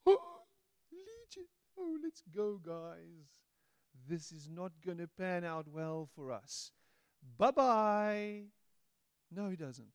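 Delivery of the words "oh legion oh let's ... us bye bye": panicked demons. Pretend.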